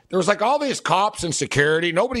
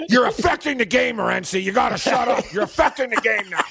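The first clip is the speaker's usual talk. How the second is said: annoyed; 5 semitones higher than usual. Retold or imitated. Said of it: "Cam finally snaps".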